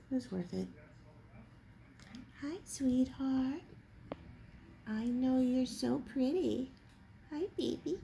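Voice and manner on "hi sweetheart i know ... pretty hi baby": pet-talk coo. Real, not acted. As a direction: coo sweetly at the cat. Talking to her cats.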